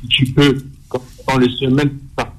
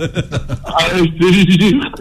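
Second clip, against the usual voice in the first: laughing; 4 semitones higher, much slower than usual. Real, not acted. Joking about oil, laughter around.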